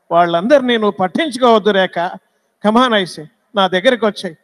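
lightly voiced serious film-lover dialogue; a hint of an earnest screen hero, firm, with pauses between phrases; Krishna. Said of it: "సీరియస్గా మాట్లాడినా కృష్ణ గారు ఒక dialogue చెప్తారు". (కృష్ణ గారి serious dialogue శైలిని లీలగా అనుకరిస్తూ)

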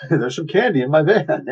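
hammed-up sing-song lure; mock creepy luring. Joking stranger luring someone with candy, mock creepy sing-song. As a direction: coax with swooping, teasing pitch.

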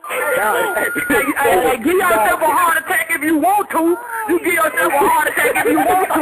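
high, loud, overjoyed hollering; excited yelling. Real, not acted. Host hollering at listeners after the win, high excited yells. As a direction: let it burst out, giddy with joy. Celebrating election result, yelling out.

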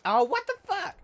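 very high, loud shocked yelp; shocked outburst. Real, not acted. Gamer losing a fight, yelping in shock. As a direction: shriek it in disbelief. Surprised death.

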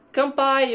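"kanpai" dito alto e agudo, como um brinde japonês; brinde japonês imitado. Retold or imitated. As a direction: grite "kanpai" como quem brinda num bar de Tóquio. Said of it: "quando eles falam". (imitando um brinde japonês)

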